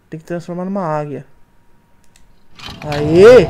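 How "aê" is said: cheering. Real, not acted. Solves puzzle, cheers.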